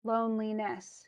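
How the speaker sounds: Loneliness as LONE-li-NESS; measured beats on first and last syllables of Loneliness; two stresses. Shown as a demonstration. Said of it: "both this and this are stressed".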